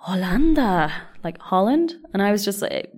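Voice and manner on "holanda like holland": put-on surprised old lady. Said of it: "she gasped and was like".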